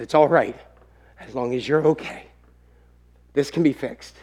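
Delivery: gently forgive, voice dropping away; melted heart. Retold or imitated. Father forgiving his sorry son, tender. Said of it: "the father's heart melted".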